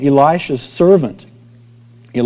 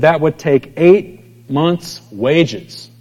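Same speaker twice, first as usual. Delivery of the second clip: dismayed Philip; 2 semitones higher, much slower than usual. Retold or imitated. Philip voiced, slow and dismayed.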